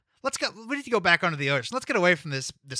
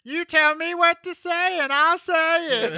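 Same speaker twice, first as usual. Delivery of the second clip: Little Sour voice; 10 semitones higher than usual. Acted.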